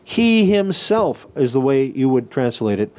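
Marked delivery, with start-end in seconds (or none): 0.0-1.3 slow, high stress on "He himself", each word weighted; emphatic He himself. Shown as a demonstration. Teacher showing students the emphatic Greek pronoun, slow stressed "He himself". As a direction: lean hard on "He himself" and draw it out. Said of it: "You're making it emphatic".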